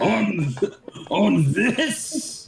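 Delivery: high-pitched, startled disbelief; real incredulous query, pitch jumping up; incredulous question. Real, not acted. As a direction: ask it high, caught off guard. Player incredulous about the roll.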